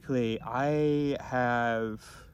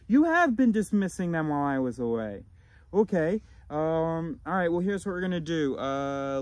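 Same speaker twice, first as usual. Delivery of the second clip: higher-pitched, louder voice of sudden realization; higher inner voice; 6 semitones higher, 4 dB louder than usual. Acted. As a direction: play an inner voice that just noticed something and takes charge. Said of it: "So now that the higher voice has".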